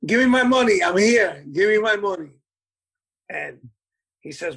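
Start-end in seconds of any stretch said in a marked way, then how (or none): 0.1-2.3 mock demand. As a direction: hammer it like Hector insisting on his pay. Bandleader demanding pay from owner.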